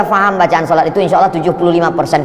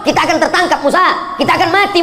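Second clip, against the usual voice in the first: mock panic; 9 semitones higher than usual. Israelites panic at the sea.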